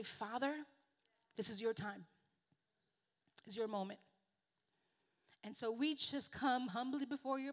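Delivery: heartfelt congregational prayer, almost in tears. Acted. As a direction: pray over the congregation, swelling on the name. Leads an opening prayer.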